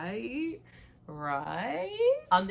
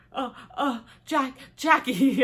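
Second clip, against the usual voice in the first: high, slow, choked stammer; tearful stammer; 7 semitones higher, 10 dB louder, slower than usual. Acted. Son breaking down when asked about the teapot, choked stammer. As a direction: stumble over the name like you're about to cry.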